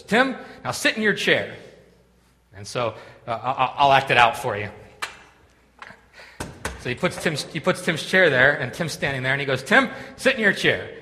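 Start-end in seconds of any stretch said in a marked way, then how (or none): 0.0-1.5 higher-pitched mock command; acted instruction. Acting the speaker directing Tim. 9.6-10.9 higher-pitched mock command; acted instruction. Acting the speaker directing Tim.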